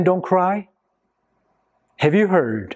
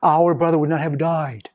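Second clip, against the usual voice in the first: imitated crying out; 2 semitones higher than usual. Grieving sisters to Jesus at their brother's funeral, mildly acted outcry. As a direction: cry out reproachfully, lightly acted. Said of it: "they were crying out to Jesus".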